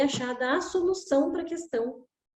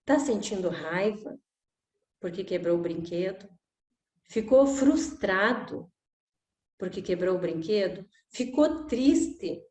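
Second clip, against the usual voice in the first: gentle father; 4 semitones lower than usual. Retold or imitated. Father kneels, names child's emotions.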